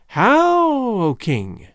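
a high piping challenge; mocking crone. A narrator's reading. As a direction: sneer it up at the king. Witch mocks the king.

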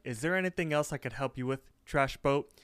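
mock-helpful taunt, name added pointedly; lightly taunting customer-service question. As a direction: imitate a clerk needling a customer. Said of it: "she's totally taunting him".

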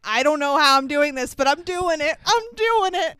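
put-on the boy who can't believe his feet are dancing; climbing to a squeaky astonished peak; mock amazed Kyle. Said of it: "and he's like".

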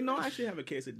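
lightly imitated precise order; proper customer. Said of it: "Did he say it like that?".

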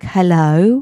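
put-on British-accented butler's greeting. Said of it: "he's got a British accent".

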